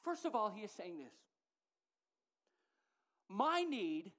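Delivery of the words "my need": demanding voice. Acted. Voicing selfish demand.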